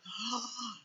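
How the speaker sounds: soft, breath-heavy mock gasp; astonished gasp. Man watches his leg grow, imitated astonished gasp. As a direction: imitate a stunned little gasp. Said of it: "el otro nomás le decía".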